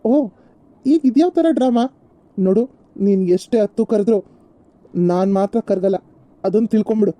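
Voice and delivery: loud, scornful rebuke; angry shout. Acted. Husband to his begging wife, loud angry scorn. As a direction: shout her pleading down with contempt.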